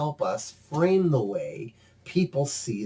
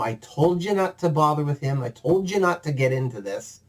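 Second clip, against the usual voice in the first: scolding; faster than usual. Acted. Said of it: "Una's just giving him the gears".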